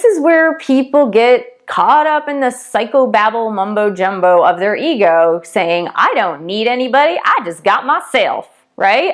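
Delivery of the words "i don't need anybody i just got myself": put-on a light Southern accent, self-assured. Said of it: "went into that Southern accent".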